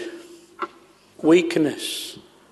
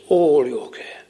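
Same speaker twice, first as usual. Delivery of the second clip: "all" pressed with a falling tune; stress on all. Shown as a demonstration. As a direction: press "all" and let it fall. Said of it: "such an emphasis".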